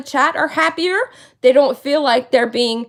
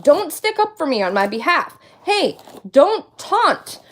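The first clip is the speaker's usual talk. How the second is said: imitating Charlotte. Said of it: "That's Charlotte, by the way".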